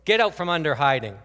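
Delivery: loud booming movie-God command; booming divine order, loud and stern; great big voice. Retold or imitated. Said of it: "with a great big voice".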